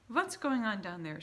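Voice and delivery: loud demanding call down; witch shouting. A narrator's reading. Grand High Witch shouting down from the platform. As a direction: bark the question from the platform. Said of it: "shouted the Grand High Witch".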